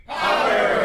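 crowd shouting the word together; ragged group unison. Real, not acted. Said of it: "you are all are gonna say poppers again".

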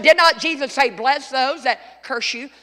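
preacher driving the question home. Shown as a demonstration. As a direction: say it again and make them hear it. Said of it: "I said".

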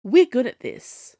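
high, loud panted reply; panting. Acted. Ziyi answering the Snow Queen, panting. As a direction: pant it out mid-fight. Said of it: "Ziyi panted".

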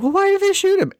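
high, puzzled question; baffled. Retold or imitated. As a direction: sound totally thrown by it. Retelling her own confusion.

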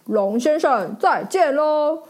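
lightly voiced polite knight; a hint of a gallant hero declining. Knight politely turns down the dragon, lightly voiced. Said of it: "骑士说".

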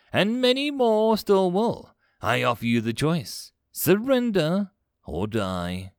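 imperious, measured ultimatum; conquering commander. Acted. Alien commander demands a planet's surrender, imperious. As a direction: proclaim it as a conqueror, emphatic and deliberate.

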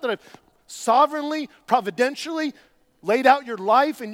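stern. Retold or imitated. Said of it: "being very stern here with Peter".

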